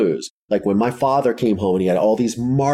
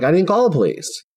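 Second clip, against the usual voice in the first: high protesting denial; 9 semitones higher than usual. Retold or imitated. Denying grandmother's accusation.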